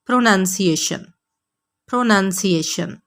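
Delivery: प्रोनाउंसिएशन with "nun", repeated clearly; careful model of प्रोनाउंसिएशन; correct pronunciation. Shown as a demonstration. Teacher drilling the right form. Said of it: "आपने कहना है".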